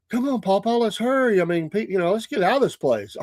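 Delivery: a lightly mimicked eager granddaughter; granddaughter's voice. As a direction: voice the granddaughter urging grandpa along. Grandpa voicing granddaughter hurrying him.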